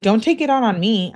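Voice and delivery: each word of "Don't take it out on me" pushed, "take" strongest; emphatic reading. Retold or imitated. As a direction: lean hard on "take" in "Don't take it out on me". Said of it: "She emphasizes her own message".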